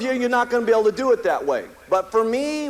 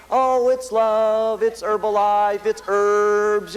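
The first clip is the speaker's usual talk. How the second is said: mimicking Hal; much slower than usual. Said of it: "with his little bottles going".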